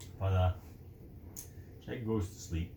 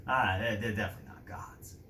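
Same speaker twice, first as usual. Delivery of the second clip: hushed, breathy denial; guard whispering he's certain; whispered aside; 5 semitones lower than usual. Acted. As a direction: drop to a whisper, half to himself. Guard doubting aloud.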